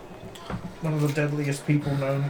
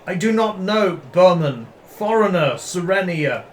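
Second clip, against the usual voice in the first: broken foreign speech; 3 semitones higher, 4 dB louder than usual. Acted. Player answering in broken Common.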